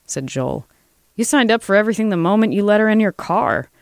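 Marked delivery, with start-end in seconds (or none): 1.2-3.7 higher-pitched, forceful accusation; angry retort. Acted. Lobbyist turns on Joel, accusing and heated. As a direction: throw the blame back at him, pitched up.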